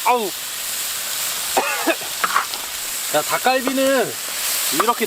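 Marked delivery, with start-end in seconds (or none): 0.4-3.1 coughing. Real, not acted. Smoke stinging eyes while cooking.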